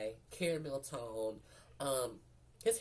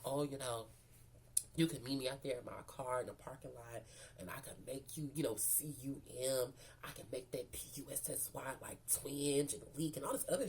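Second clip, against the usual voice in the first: imitated smooth talker, softening as he goes; lightly put-on deep seducer, dropping to a whisper on the spelled word. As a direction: play a smooth come-on, a little low and hushed. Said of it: "talking to me with this really smooth, like, deep voice".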